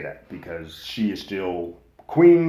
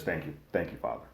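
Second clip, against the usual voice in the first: quiet thanks; 3 semitones lower, 6 dB quieter than usual. Retold or imitated. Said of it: "Rhaenyra says".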